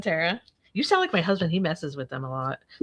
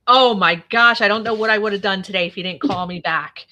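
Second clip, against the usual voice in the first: louder, gushing thanks; mock gratitude; 2 semitones higher, 6 dB louder than usual. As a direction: overplay the relief. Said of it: "He goes".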